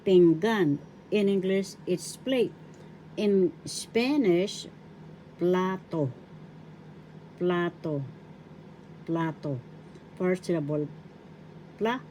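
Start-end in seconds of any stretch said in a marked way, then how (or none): 0.1-0.8 pinggan said loudly, accent on the last syllable; stress on GAN. Shown as a demonstration. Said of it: "The accent is in the second syllable". 5.4-9.6 plato with the accent on PLA; stress on first syllable. Shown as a demonstration. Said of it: "The accent is in the first syllable".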